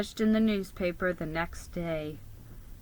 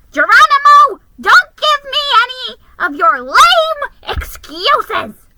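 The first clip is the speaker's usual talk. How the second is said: stern sister barking orders down the phone; ordering; 14 dB louder than usual. A narrator's reading. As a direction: command him sharply, no excuses. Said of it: "she ordered".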